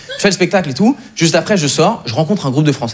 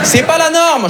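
indignant shout; 10 semitones higher, slower than usual. Acted. Indignant punchline.

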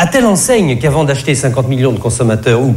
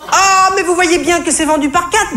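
high, squeaky exasperated cashier voice; yelping annoyed cashier. Acted. Comedian playing the irked cashier, high yelping voice. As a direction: yelp it out with an irritated sigh, way up high. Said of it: "glapit-elle au sortir d'un soupir agacé".

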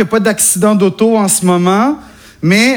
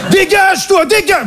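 Parisian accent; 10 semitones higher than usual. Shown as a demonstration. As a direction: shoo them off, Parisian style. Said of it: "le parisien de base".

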